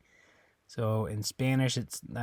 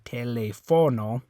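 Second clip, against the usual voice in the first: TELÉFONO wrongly as te-le-FO-no; TELÉFONO with stress moved to FO; stress on third syllable; 3 dB louder than usual. Shown as a demonstration. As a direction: hit the FO of TELÉFONO. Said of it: "If you're stressing that O".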